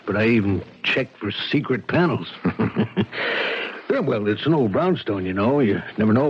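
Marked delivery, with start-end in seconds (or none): 2.4-3.8 soft breathy laugh. Acted. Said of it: "You laugh".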